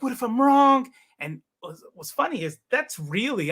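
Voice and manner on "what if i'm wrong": high, louder startled question; sudden doubt. Retold or imitated. Soldier on post suddenly doubting his faith, startled and high. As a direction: let the doubt hit you all at once. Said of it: "And then I'm like".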